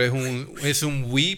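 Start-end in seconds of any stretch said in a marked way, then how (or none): 1.1-1.4 short "oui" on the in-breath; inhaled "oui". Shown as a demonstration. Explaining French agreement to co-hosts, inhaled. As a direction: breathe in while saying "oui". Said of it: "pero para adentro".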